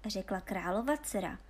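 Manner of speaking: plain reading voice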